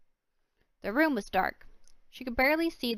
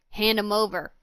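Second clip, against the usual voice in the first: commanding; 6 dB louder than usual. Acted. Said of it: "Loxy commanded".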